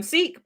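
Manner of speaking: "Sikh" said as seek, long ee; anglicized pronunciation. Shown as a demonstration. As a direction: stretch the vowel in "Sikh" to ee. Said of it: "we would just say".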